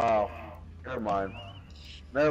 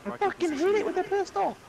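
very high, loud triumphant yell; excited shout; 4 dB louder than usual. Real, not acted. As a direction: celebrate the hit at full voice. Excited hit in game.

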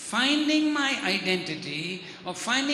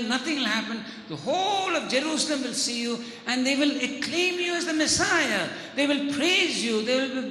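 coaxing devil, building in energy; lightly voiced tempter. Devil tempting Jesus on the temple, lightly voiced coaxing. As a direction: talk him into it, a touch of grand promise. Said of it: "and he says".

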